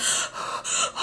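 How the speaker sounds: soft voiceless gasp; mock shocked intake of breath; imitated gasping. Pregnant woman after the crash, imitated gasp.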